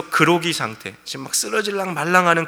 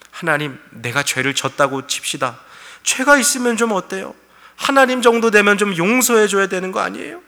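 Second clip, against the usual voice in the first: indignant retort; 5 semitones higher, 4 dB louder than usual. Retold or imitated. Pastor voicing Job's indignation.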